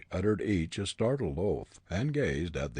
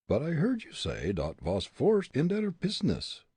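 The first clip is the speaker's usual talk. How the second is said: put-on comic German accent, raised pitch; thick stage German accent; 9 semitones higher than usual. A narrator's reading.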